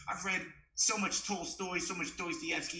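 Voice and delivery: lightly put-on cultured white voice; well-spoken. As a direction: show off your reading in a mock well-spoken voice. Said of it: "by being well-spoken".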